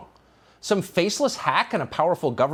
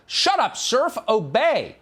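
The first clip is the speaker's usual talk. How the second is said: high, louder barked order, hammed-up; mock bossy official; 9 semitones higher, 3 dB louder, slower than usual. Host imitating the NSA assistant, high hammed-up order. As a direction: play a bossy bureaucrat shutting him down.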